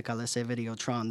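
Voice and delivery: Colisée Videotron said the French Canadian way, coh-lee-ZAY vee-day-oh-TRON; French accent. Real, not acted. Host naming the Quebec arena to his guest with a French accent. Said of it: "You got a good accent there".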